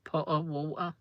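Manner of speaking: "Potter, water" with matching vowels; rhyming Potter with water. Shown as a demonstration. Vlogger showing how "Potter" sounds like "water". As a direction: say both to show they rhyme. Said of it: "Potter sounds like the word water".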